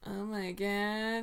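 low manly bass. Pretend. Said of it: "that's more like you".

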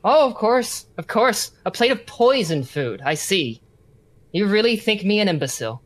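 mock-offended, lightly sarcastic; sarcastic prisoner. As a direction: scoff at your captor's offer. Prisoner refusing a plate of food.

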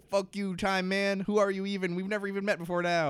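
high-pitched mock exasperation; hammed-up indignant challenge; fed up. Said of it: "gets fed up with him".

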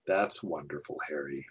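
dry, deadpan sarcasm on That's wonderful, Harry; sarcastic. Retold or imitated. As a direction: say it with a flat, mocking drop on Harry. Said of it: "her sarcastic".

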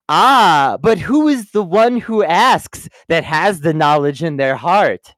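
lightly put-on Jesus-like sage, opening loud; mock-profound riddle, hammed up; Demetria. Demetria answering her Ranger disciples, badly imitating Jesus. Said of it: "Demetria is like someone badly imitating Jesus".

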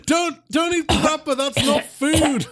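high, urgent telling-off; alarmed scolding. Acted. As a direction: stop him eating the wrapper. Player stops Galashin eating wrapper.

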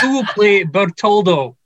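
put-on second go at a Scottish accent, "Bertoldo" with a round OL; retry the Scottish accent with a clear O in "Bertoldo"; retried Scottish accent. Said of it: "Can I say that again?".

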